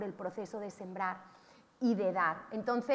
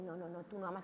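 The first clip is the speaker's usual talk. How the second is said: whispered deceiver; 7 semitones lower, 13 dB quieter than usual. Retold or imitated. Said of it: "el Dios Mamón te dice".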